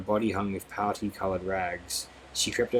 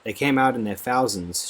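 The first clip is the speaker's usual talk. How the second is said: chuckling; 3 semitones higher, 6 dB louder than usual. Acted. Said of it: "she chuckled".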